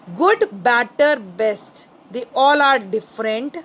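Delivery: slow, spaced-out reading of good, better, best; slow dictation. Shown as a demonstration. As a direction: read each word slowly for the class to note. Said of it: "teacher reads rule slowly to class". (धीमे-धीमे बोलकर लिखवाना)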